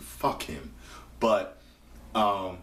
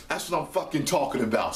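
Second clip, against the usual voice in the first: fast excited cheer; 5 semitones higher, faster than usual. Real, not acted. Excited about Sid.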